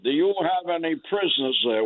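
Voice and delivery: lightly imitated heavy German accent; a hint of a German accent on the question. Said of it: "with a heavy German accent".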